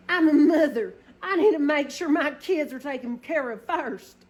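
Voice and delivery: mock-solemn mom line, cracking up; laughing. To viewers about her dog, laughing.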